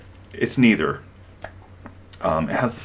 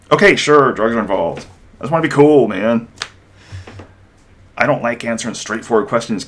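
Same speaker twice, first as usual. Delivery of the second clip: mock cool guy; 2 semitones higher, 6 dB louder than usual. Mocking a cool evasive guy.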